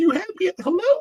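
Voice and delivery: put-on, high, tearful movie-heroine voice. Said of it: "Renee Zellweger's".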